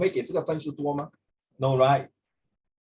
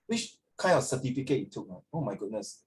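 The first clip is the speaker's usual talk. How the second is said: imitating scornful strangers; 4 semitones lower, 5 dB quieter than usual. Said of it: "people would know that these strangers".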